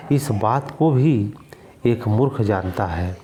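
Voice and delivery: इस बात को भी said slowly, भी drawn out; slow deliberate. Shown as a demonstration. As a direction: spell it out slowly for the class. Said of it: "लेकिन इस बात को एक मूर्ख भी जानता है".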